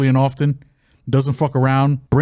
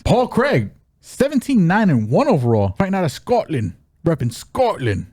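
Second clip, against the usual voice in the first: put-on Scottish accent; 4 semitones higher than usual. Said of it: "That's my best Scotland accent".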